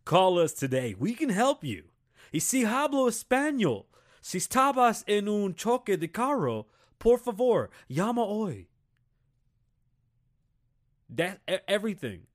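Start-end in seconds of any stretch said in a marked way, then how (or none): 0.1-8.7 advert announcer. Retold or imitated. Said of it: "it'd be like".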